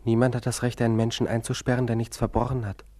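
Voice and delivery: loud, indignant protest; outraged. Acted. Patient protesting to his doctor, loud and outraged. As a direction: declare it as a right.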